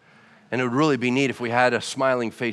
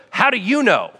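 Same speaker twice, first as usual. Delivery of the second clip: God asks with a laugh in the voice; chuckling, teasing question; amused God; 6 semitones higher than usual. Acted. God gently teasing his worried child, laughing. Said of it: "he stops and goes".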